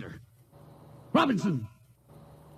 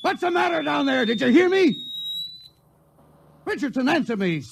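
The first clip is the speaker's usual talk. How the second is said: shouting; 9 semitones higher than usual. Acted. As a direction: shout down to the gun crew. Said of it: "It's no use to shout".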